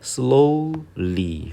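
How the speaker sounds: "slowly" split into slow-ly, first beat held high; two separate syllables. Shown as a demonstration. Teacher showing a two-syllable word, "slowly" divided into slow-ly. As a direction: sound out "slowly" as two distinct beats. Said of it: "그러니까 이음절이거든요".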